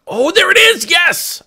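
high thrilled yelp; overjoyed cry of relief; excited. Real, not acted. Finds lost pick.

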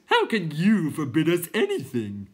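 high, loud outburst; incredulous clowns. A narrator's reading. Clowns questioning Bastian, high loud disbelief. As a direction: cry it in disbelief.

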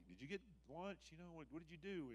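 high-pitched acted questioning; disciples' questions. Disciples asking Jesus about lunch, high-pitched acted questioning. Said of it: "They're like".

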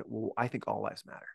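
mild mock of a confrontational jab; hostile retort. Someone getting in your face to counter a slogan, low and pointed. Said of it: "they get in your face and they say".

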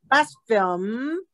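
slow "blaspheme" with BLAS stressed; stress on first syllable. Shown as a demonstration. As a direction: punch BLAS in "blaspheme", then lift the drawn-out ending. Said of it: "这个重音都在第一个哈".

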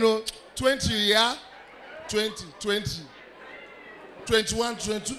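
low, mumbled counting with chat mixed in; lightly voiced distracted counter. Igbo man counting money while you greet him, low mumble. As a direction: keep counting while half-answering. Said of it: "let me show you".

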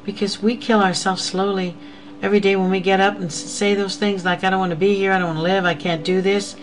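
fervent pulpit preaching. Real, not acted. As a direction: press the congregation hard. Preaching builds to exhortation.

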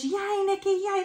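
high, bright cheering of her own name; mock crowd cheer. Vlogger imitating the conference crowd cheering her name, excited high cheer. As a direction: squeal it like a happy crowd greeting her.

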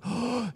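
high, soft gasp of hope; imitated breath of renewed strength; relieved gasp. Tired climbers hear it's close, relieved gasp. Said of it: "you could see the strength renew".

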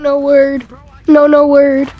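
loud urgent shout. Real, not acted. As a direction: yell at him to stop. Yelling at friend over bad word.

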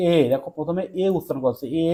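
"এ" held as a long vowel; sounded-out first vowel. Shown as a demonstration. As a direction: isolate and stretch the opening "এ". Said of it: "তুমি কি উচ্চারণ করছো". ("এ" ধ্বনি আলাদা করে টেনে বলা)

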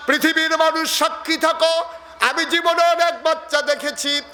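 high, awestruck preaching cry; awed exclamation. Acted. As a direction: proclaim it in wonder. Preacher voices Halima's amazement. (বিস্মিত উচ্চস্বরে)

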